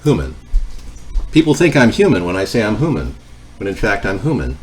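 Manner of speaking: flat mechanical monotone; deadpan robot delivery. Pretend. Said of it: "I sound like a monotone robot".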